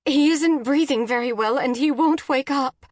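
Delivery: high, loud, panicked report; frantic mother on an emergency call; urgent rush. A narrator's reading. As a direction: pour it out in alarm. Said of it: "Jen spoke in a rush".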